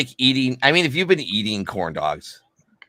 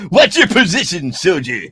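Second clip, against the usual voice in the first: mock drill sergeant; 7 semitones higher, 6 dB louder than usual. Echoes drill sergeant line.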